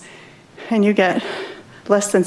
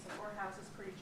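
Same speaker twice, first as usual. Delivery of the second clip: distant, away from the microphone; turned away from the mic; 29 dB quieter, faster than usual. Real, not acted. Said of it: "please speak into the mic".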